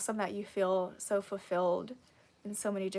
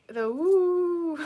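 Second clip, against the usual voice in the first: laughing; 7 semitones higher, 7 dB louder than usual. Real, not acted. Playful question, laughing.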